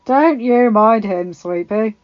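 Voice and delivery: slow, friendly figure voice, smiling; cheery companion. A narrator's reading. Beric soothing Arya about the Hound, cheery. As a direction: reassure her cheerily, taking it slowly. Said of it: "Adorned with a cheery smile".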